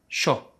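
sho with a hissing sh, like English S H; sh sound. Shown as a demonstration. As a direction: say sho with a strong sh. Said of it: "we pronounce the sound sho".

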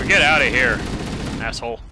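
loud get outta here; shouting. Real, not acted. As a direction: yell them off. Clearing enemies.

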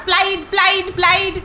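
প্লাইড said as one clipped syllable, "plaid", no u; imitating him saying প্লাইড instead of প্লাইউড; mock mispronunciation. Correcting the uploader, she mimics his প্লাইড as a clipped "plaid". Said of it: "প্লাইড কি? প্লাইউড".

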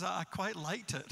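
put-on American accent. Old man praising the visiting preacher, imitated American accent. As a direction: mimic the old American guy. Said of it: "he said in American".

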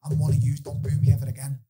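retold plea to crowd. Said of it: "I remember saying to them".

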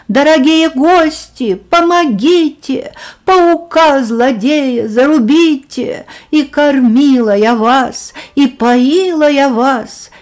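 повыше и погромче, с испуганной мольбой; зови гостей на помощь, как в последний час; отчаянная мольба о помощи. Acted. Муху тащит паук, она зовёт на помощь. (муха в испуге молит гостей о спасении)

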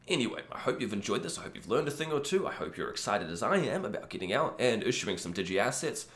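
hoarse from a cold; a rough, croaky morning voice. Real, not acted. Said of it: "my kind of croaky voice this morning".

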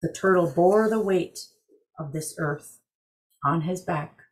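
calm storyteller reading a legend; story narration. A narrator's reading. Story narration over music.

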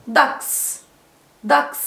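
"داكس" ending in a voiceless ks; final s sound. Shown as a demonstration. Teacher asking pupils what they hear, "داكس" ending in s. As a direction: model "داكس" as ducks, with an s ending. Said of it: "برضو اس".

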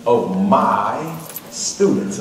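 "my" drawn out slowly; stress on "my". Shown as a demonstration. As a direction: stretch "my" long before "students". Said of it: "I'm putting emphasis on that word".

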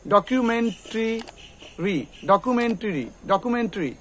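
ডকুমেন্টারি slowly ending in "tri". Shown as a demonstration. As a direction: stretch out ডকুমেন্টারি as "do-kyu-men-tri". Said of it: "এরকম করে আমরা লাগাবো ট্রি".

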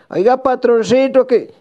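llamado agudo y alargado; llama al jefe con tono muy alto; llamando al patrón. Acted. (pregón agudo al patrón)

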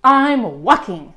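slow, mildly irritated reply; a touch of grumpy snapping; grumpy snap. Acted. Grumpy Bird answers Raccoon, mildly snappish. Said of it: "snapped Bird".

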